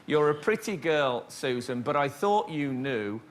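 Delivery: distinctive put-on American accent; actor's stock American accent for a script line. Shown as a demonstration. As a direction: do your one and only American accent. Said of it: "one American accent, and it's quite distinctive".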